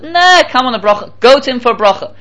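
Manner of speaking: acting a pushy friend; dismissive urging. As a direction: brush off the doubt and urge him. Acted friend waves off and urges.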